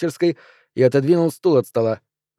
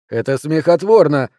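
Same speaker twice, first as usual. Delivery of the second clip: louder, gruff bark; 2 semitones higher, 5 dB louder than usual. Acted. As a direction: bark it at the control room. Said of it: "гаркнул Олаф".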